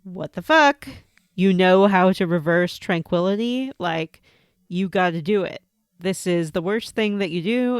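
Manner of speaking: loud outraged mage demanding action; indignant mage. Acted. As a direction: blast her with outrage. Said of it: "my mage character was like".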